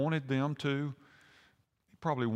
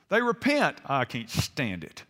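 mock anger. Jonah fuming over Nineveh's repentance, mock anger. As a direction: act out a comic fit of indignation. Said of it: "and he was angry".

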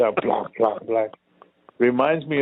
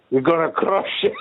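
mock German accent; 7 semitones higher than usual. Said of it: "He was saying, like".

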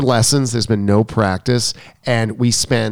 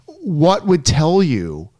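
slow, higher-pitched retold exasperation; annoyed; 6 semitones higher, much slower than usual. Coach retelling a challenge to the student, annoyed. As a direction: drag it out, mildly annoyed. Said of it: "and I got annoyed".

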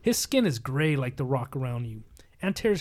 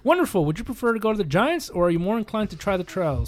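lightly voiced fairy queen; 4 semitones higher than usual. Reading the fairy queen's lines.

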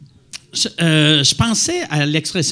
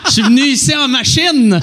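put-on louder, higher old-timer voice through laughter; 5 semitones higher, 5 dB louder than usual. Friends joking about grandparents, hammed-up old-timer voice. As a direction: ham up an old-timer talking about his car. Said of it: "pour sonner comme un vieillard".

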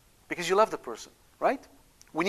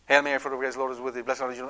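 telegraphic rosary; 3 semitones lower, faster than usual. Retold or imitated. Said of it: "they say what I call the telegraphic rosary".

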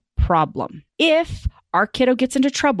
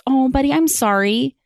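apologetic sympathy; 6 semitones higher than usual. Retold or imitated. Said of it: "Typically it's".

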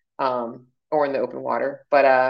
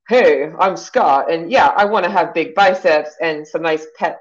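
lightly voiced impression, slightly louder; a half-hearted put-on man's introduction; Scott; 4 dB louder than usual. Coach imagines her client introducing himself, lightly put-on voice. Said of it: "I don't have a good Scott voice".

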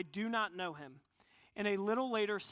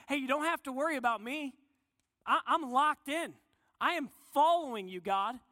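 mildly acted cocky assurance, pitched higher; higher, emphatic, lightly acted self-assurance; overconfident pledge; 4 semitones higher, 4 dB louder than usual. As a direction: play an eager disciple swearing loyalty, voice lifted. Peter's bold pledge to Jesus, acted.

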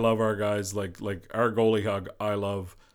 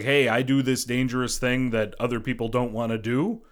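imagined goalie bonding; 3 semitones higher, 4 dB louder than usual. Retold or imitated. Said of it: "You know, it's like".

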